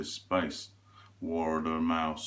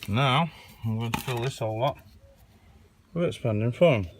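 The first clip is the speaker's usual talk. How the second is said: mock announcement; 4 semitones higher, 5 dB louder than usual. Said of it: "He says".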